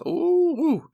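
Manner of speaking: a very high, delighted squeal of ooh; excited ooh. Real, not acted. Pastor telling spouses a clear request is gold, excited. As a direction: sound thrilled, like finding treasure.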